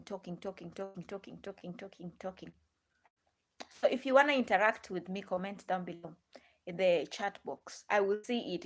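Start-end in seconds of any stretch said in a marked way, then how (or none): 0.0-2.5 softer and softer, rhythmic; trailing repetition. Real, not acted. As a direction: let the word fade into a chant. Repeats word to illustrate.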